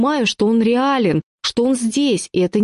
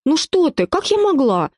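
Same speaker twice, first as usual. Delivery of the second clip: higher, coy mock-innocent voice; feigned innocence; 8 semitones higher than usual. A narrator's reading. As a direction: play the innocent to her husband. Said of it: "Изображаю саму невинность". (изображая невинность, выше обычного)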